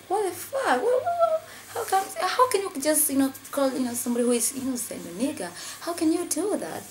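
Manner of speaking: very high-pitched, incredulous retold outburst; outraged disbelief. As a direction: challenge them, voice leaping up in shock. Friends retold confronting the insult in shock.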